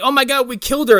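high-pitched "we're doomed" panic; mock panic. Kids who ran someone over, mock panic.

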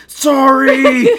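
high, loud, laughing apology; polite barbarian mid-rage; apologetic barbarian. Pretend. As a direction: yelp an apology mid-swing. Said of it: "hits someone and is like".

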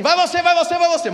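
loud, high rapid-fire calls; urgent shouted turn-taking; team calling out. Acted. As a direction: bark out assignments to a medical team. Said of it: "A equipe é assim".

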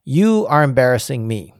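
firm quoted scolding, each word weighted; all-caps emphasis. Retold or imitated. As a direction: read the rebuke in capitals. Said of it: "all caps".

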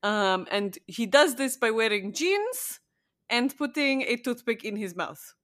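a light, hammed-up Eastern European vampire accent; a podcaster playing a crappy Eastern European vampire, lightly. Co-host chatting about a vampire show, in a mock Eastern European vampire accent. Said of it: "funny Eastern European crappy vampire accent".

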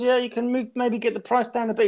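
mock wheedling buyer pushing on the price; pushy haggler. Retelling the haggle, customer nags for a discount.

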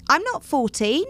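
put-on high, whiny kid voice; a kid blurting out the truth; protesting boy. Boy contradicting his dad to the worker, high and whiny.

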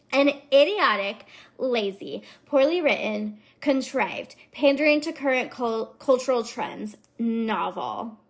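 lightly mocking Valley Girl list of gripes; mildly scornful Valley Girl reviewer. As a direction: punch each insult, a little Valley Girl. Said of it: "the Valley Girl kind of is my go-to voice".

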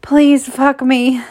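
high, loud, drawn-out begging; moaning plea. A narrator's reading. Narrator voices woman begging her lover, moaning. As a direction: moan it out slowly and high. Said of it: "I moan".

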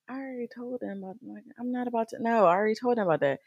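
high, quick flustered protest; protesting to God. Retold or imitated. Herself protesting to God in the meeting, high and rushed. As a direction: argue back, rushed and high.

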